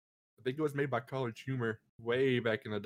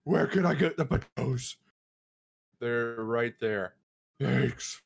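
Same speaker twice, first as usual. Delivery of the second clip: lightly put-on superhero voice; a hint of a costumed crime-fighter doing errands; Batman voice. Imagining the actor shopping in character, mock Batman voice. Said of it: "Like Batman".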